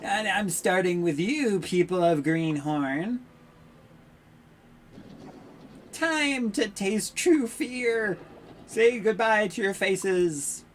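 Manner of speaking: slow, menacing villain proclaiming doom; villain Dark Lord voice. Acted. Dark lord threatening the townsfolk, slow menacing gloat.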